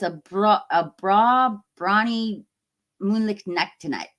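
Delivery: Gigi's thick Scottish saying, attempted; Scottish accent. Recalling great-grandma's favourite saying, in an attempted Scottish accent. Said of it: "She had a very thick Scottish accent".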